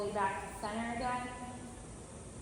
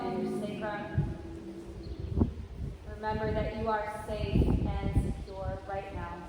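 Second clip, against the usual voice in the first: guided meditation. Acted. Leads a body-scan meditation.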